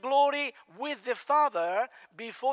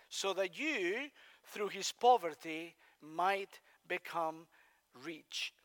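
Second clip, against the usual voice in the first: slow, reverent reading that fades softer to the end; scripture reading; 3 dB quieter than usual. Shown as a demonstration. Preacher reading the verse to the congregation, slow and reverent. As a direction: read the verse slowly, letting it sink. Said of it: "and I quote".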